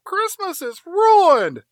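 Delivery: high, slow, drawn-out cry; mock wail. Someone in the crowd lamenting, high slow mock wail. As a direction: wail it like a heartbroken villager. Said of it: "someone from the crowd yells out".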